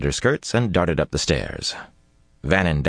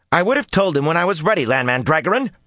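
high, loud and quick, barely held anger; angry outburst; 13 semitones higher, 4 dB louder, faster than usual. A narrator's reading. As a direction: let the anger spill out at Lan. Nynaeve angry at Lan.

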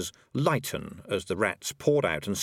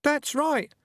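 much higher, squeaky little voices; chorus of rats; 4 dB louder than usual. A narrator's reading. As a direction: chime in like tiny rats. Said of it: "a chorus of voices from his trousers".

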